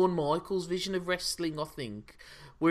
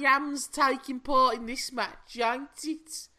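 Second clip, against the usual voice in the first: put-on Black Country accent, higher pitch; 4 semitones higher than usual.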